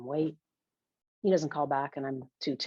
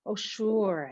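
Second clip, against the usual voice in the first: lilting, pitched-up easy agreement; sing-songy; 4 semitones higher than usual. Acted. Emmett agreeing to give the book back, sing-songy. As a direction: sing the words out breezily. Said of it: "Emmett says in a sing-songy voice".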